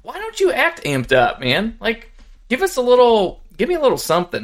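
high-pitched, pleading fan exasperation; exasperated plea. Retold or imitated. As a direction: beg him to show some life. Fan pleading with monotone coach.

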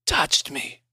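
thin raspy whisper. Acted. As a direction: breathe the words out weakly. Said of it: "he whispered".

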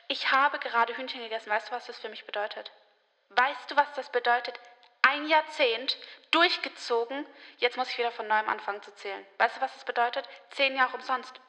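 quiet mock-tearful lament; imitated sobbing. Vegetarian lamenting ten lost years to her mother, imitated tearful upset. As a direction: re-enact despair softly, as if falling apart. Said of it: "geschluchzt hab".

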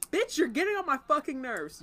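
loud, high, exaggerated irritation; mock angry outburst. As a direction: bark it like a fed-up partner. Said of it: "you was like".

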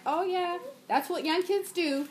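reassurance meant to be overheard; pointedly loud enough. Retold or imitated. Mom remarking on a crying kid for onlookers, pointedly audible. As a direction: project it a little, for the onlookers' benefit. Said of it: "I make sure that I'm loud enough".

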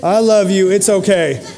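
sugary pious forgiveness, slow start; mock churchy kindness to the client; mock saintly. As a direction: pretend to be the bigger man. Imagined saintly reply, then mocked.

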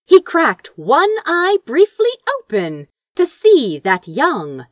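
ordinary delivery, nothing marked

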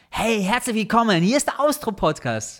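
high, hammed-up radio host greeting; übertriebener Radiomoderator. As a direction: overdo it like a cheesy private radio presenter. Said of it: "ein bisschen viel übertriebener reden". (übertrieben aufgedrehte Radiobegrüßung)

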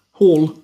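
Hall with the final L sounded; L pronounced. Shown as a demonstration. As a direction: practise Hall, landing on its L. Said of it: "You're not pronouncing the L".

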